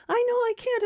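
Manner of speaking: very high squeal of helplessness; distressed friend. Acted. Friend unable to make the call protests, distressed. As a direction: wail it in mock distress. Acted flustered reply in quarrel.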